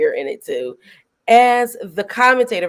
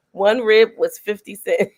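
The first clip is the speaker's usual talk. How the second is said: laughing. Real, not acted. Laughing at the movie scene.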